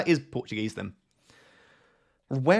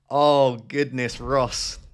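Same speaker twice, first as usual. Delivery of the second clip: self-scolding groan; 5 dB louder, much slower than usual. Real, not acted. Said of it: "I've let the pressure of the camera get".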